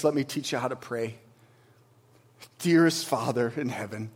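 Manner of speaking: soft, low and unhurried prayer; hushed prayer. Pretend. Jesus teaching disciples to pray, soft and low. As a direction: drop the voice down into a prayer.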